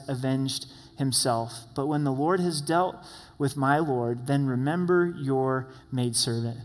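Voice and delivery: scripture reading. Acted. Pastor reading scripture to the congregation, measured. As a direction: read the passage with gravity.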